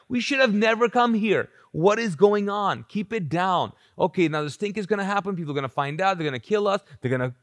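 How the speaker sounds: acted-out anxious group chatter; panicking disciples. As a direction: fret aloud like a rattled disciple. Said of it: "What are the disciples thinking?".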